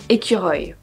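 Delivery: "Écureuil" as a French word; French pronunciation. Shown as a demonstration. French speaker challenging viewers with squirrel, French pronunciation. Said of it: "Try to pronounce the one in French".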